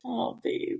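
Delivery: breathy whispered "oh, babe"; whispered swoon. Retold or imitated. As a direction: whisper it, melting. Imitating swooning reply.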